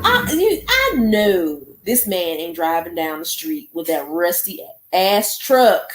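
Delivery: high, loud exasperated complaint; annoyed exclamation. Real, not acted. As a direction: call out the noisy neighbour in disbelief. Annoyed by loud truck outside.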